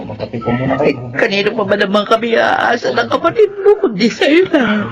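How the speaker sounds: tearful, slowing into a sob; grieving mother breaking down; acted weeping plea to her son; crying. Widow grieving husband's death.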